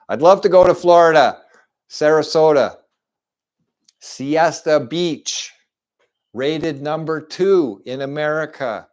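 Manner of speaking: high, loud daydream of Florida; excited, savouring each place name; gushing enthusiasm. Pretend. Gushing about a dream destination.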